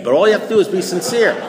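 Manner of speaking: deadpan joke, now laughing at it; ironic, laughing repeat. Shown as a demonstration. Repeating the line to the meeting after the fake-sincerity joke, laughing. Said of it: "Once you learn how to fake that".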